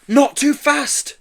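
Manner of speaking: high, drawn-out plea; begging. A narrator's reading. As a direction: beg nervously to slow down. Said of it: "begged Joe".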